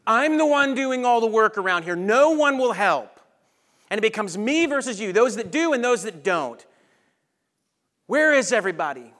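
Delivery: aggrieved host venting that nobody helps; frustrated accuser. Acted. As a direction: play the martyr who is sick of working alone. Martha as overworked accuser.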